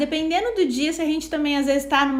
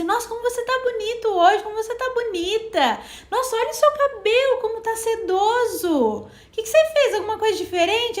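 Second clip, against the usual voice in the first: higher, gushing mock praise; gushing compliment; 7 semitones higher than usual. A friend admiring your hair, gushing and high. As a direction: heap on the flattery, wide-eyed. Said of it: "a pessoa às vezes fala assim pra você".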